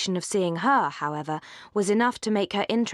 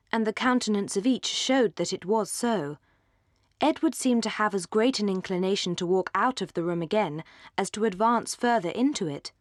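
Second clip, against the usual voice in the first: usual speaking voice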